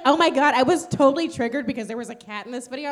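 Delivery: mimicking dramatic girl. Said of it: "she was like".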